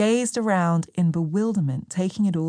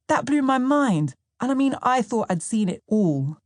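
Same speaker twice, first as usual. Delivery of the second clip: higher, lively retelling of a disbelieving friend; voicing Sam; 5 semitones higher than usual. Sam teasing his partner about her friends, lightly voiced and amused. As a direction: toss it off with amused disbelief, pitched up. Narrator voices Sam's recalled words.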